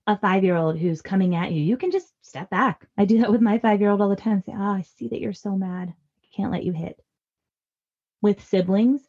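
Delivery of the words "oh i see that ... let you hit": soft, steady parent voice; calm acknowledgement. Acted. Parent stepping back from a mad five-year-old, soft and calm. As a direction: quietly hold the boundary.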